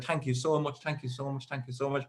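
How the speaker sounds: hushed, repeated thanks, lightly acted; soft, effusive gratitude in a retelling; over-thankful. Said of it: "I thanked him far too many times".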